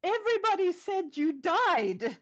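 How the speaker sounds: lightly acted cry of disbelief; mock yell. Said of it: "and she yells".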